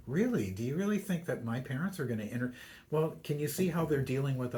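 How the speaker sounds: a hint of an incredulous bride, pitch jumping up; mock bride doubting her groom, quick; retold disbelief. Bride questioning groom about her parents, lightly incredulous.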